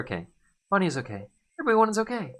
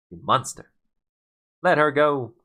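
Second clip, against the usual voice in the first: higher, louder desperate demand; desperate shout; 4 semitones higher, 7 dB louder than usual. Acted. Hero shouts at the king holding Bonnie. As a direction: yell at the king to let go.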